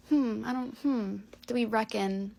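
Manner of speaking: mock the borrowed word, stretching it slowly; mock puzzlement. Friends mocking her borrowed British word.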